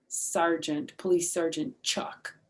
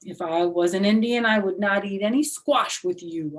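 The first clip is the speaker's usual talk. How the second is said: huffy retort; 6 dB louder than usual. Acted. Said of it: "I did a huff at her".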